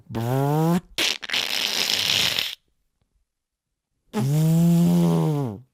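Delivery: imitated car scraping over the driveway; engine rev noise. Describing his car crash, mimics the engine roar. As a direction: buzz the lips like a scraping engine. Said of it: "So I just go".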